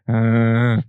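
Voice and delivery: long monotone "uhh"; imitated dazed moan. Recounting being out of it to a friend, dazed droning moan. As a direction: drone a dazed, wordless moan. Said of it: "I was just going".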